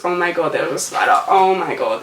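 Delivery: sudden real alarm at a spider; startled by a spider. Real, not acted. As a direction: blurt it out, startled.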